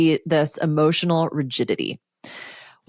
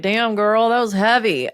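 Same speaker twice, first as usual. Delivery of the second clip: higher, playful voice for a body part; talking shoulder; 5 semitones higher than usual. Pretend. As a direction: voice your own relieved shoulder in mock exclamation. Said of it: "shoulder is like".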